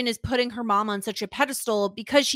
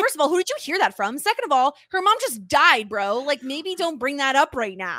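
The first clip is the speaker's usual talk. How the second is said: fast, raised, exasperated comeback; indignant retort; 4 semitones higher, 4 dB louder than usual. Retold or imitated. Friend scolding the principal over her dead mom, indignant. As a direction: tell the principal off, incredulous. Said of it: "I'm like".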